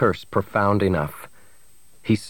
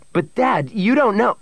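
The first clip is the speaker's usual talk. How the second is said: high, rising objection; high protest; 13 semitones higher, 3 dB louder than usual. A narrator's reading. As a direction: protest urgently and get cut off. Son protests, interrupted by father.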